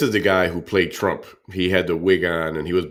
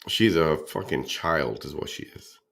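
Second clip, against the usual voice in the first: ordinary talk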